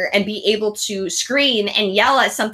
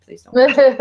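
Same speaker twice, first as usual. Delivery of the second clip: laughing plea; 2 semitones higher, 6 dB louder than usual. Retold or imitated. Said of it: "I was like".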